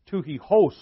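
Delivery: "Tuchihos" loud with the stress on the last syllable -hos; "Tuchihos" with a Greek h and stress on -hos; Greek pronunciation, final stress. Shown as a demonstration. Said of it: "the accent is on the last syllable".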